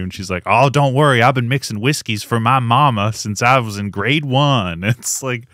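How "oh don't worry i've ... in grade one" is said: mock Southern twang; bad Southern accent. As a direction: parody an eager Southern job seeker. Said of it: "doing bad Southern accents".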